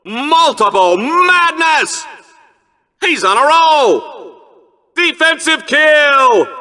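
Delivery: high, shouted hype calls, stretched out; excited kill callouts. Acted. Arena announcer hyping kills to the crowd, excited high shouting. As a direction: bellow each kill like a sports announcer.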